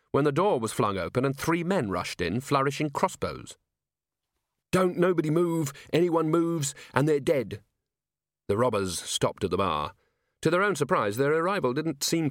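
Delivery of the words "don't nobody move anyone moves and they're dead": high, tense hold-up order; threatening robber. A narrator's reading. Crossbow robber bursting into the pub, threatening. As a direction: order the room to freeze, pitched high.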